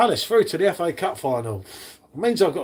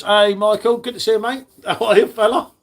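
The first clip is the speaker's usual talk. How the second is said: louder, higher hello to a mate; cheery greeting; 5 semitones higher, 4 dB louder than usual. Real, not acted. Welcoming Michael into the stream, loud and cheery. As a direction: greet him warmly and loudly.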